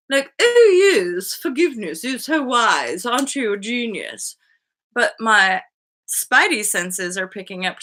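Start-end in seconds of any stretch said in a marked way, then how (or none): 0.4-4.4 imitating insincere praise; mock admiration. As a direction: gush with fake reverence. Mocks pseudo-wise posting.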